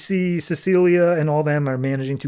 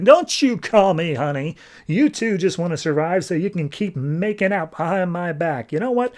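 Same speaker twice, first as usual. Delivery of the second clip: rising fury at being betrayed; jealous outburst; 4 semitones higher than usual. Retold or imitated. Jealous Commodore snaps at couple.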